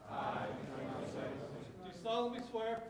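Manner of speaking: slow and deliberate. Real, not acted. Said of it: "I'll speak slow".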